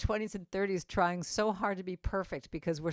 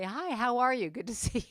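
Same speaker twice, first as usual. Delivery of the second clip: cheery, higher-pitched hello; friendly greeting; 5 semitones higher than usual. Retold or imitated. Passenger greeting whoever sits down next to her, cheery. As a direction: greet a stranger brightly.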